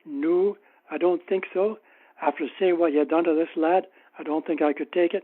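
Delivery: a lightly put-on Scottish accent; just a hint of a Scottish accent for the stranger. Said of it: "in a deep Scottish accent".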